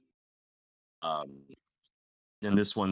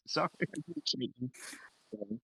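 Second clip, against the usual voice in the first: mock innocent; 11 semitones higher, 5 dB quieter, slower than usual. Mock apology after shooting player.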